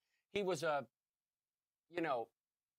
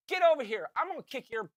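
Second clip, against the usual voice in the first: mock threat; 6 semitones higher, faster than usual. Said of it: "That's exactly what I said".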